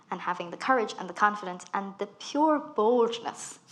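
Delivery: usual speaking voice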